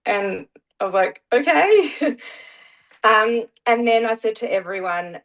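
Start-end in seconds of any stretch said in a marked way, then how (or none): 1.3-2.2 high-pitched, drawn-out okay; sceptical acceptance. Retold or imitated. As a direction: go along with it in a much higher voice. Her answer to son's teasing.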